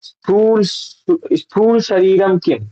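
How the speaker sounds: very slow, measured reading of स्थूल शरीरम किम; slow Sanskrit recitation. Shown as a demonstration. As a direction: recite the question word by word. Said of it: "वो पहला प्रश्न पूछते हैं". (धीमा संस्कृत पाठ)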